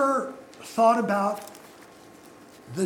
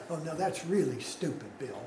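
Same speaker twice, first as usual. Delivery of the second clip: lower, softer self-reproach; talking to himself; 6 semitones lower, 8 dB quieter than usual. Acted. Preacher voicing his own inner conviction, talking to himself quietly. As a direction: drop the voice, as if muttering to yourself. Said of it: "that's me talking to myself".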